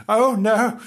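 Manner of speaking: high, loud dismayed yelp; woofing dog. Acted. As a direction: woof it out in dismay. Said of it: "waffed Frank".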